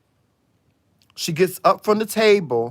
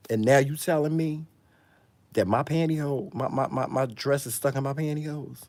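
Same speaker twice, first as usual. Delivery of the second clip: mock outraged friend. Friend to the friend who waited too long, mock outrage. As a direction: play the betrayed friend, incredulous.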